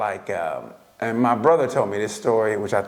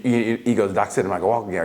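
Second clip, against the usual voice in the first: imitated dad, low and unbothered; matter-of-fact; 4 semitones lower, faster than usual. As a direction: state it as plain fact, pitched down. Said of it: "he always said everything matter-of-factly".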